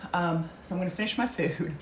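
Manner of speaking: eating while talking; mouth full. Real, not acted. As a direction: talk through a mouthful. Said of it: "You're talking while you're eating".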